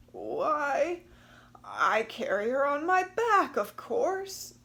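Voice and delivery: high, loud, matter-of-fact surprise; why, everyone knows that; surprised crocodile. Acted. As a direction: crocodile voice, astonished anyone would ask. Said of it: "She was so surprised".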